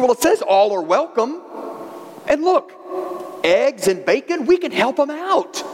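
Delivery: lightly voiced chicken, climbing high at the end; persuading chicken. Chicken talking pig into helping with breakfast, persuasive. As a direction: coax brightly, pitch jumping up on the offer. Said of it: "And he said".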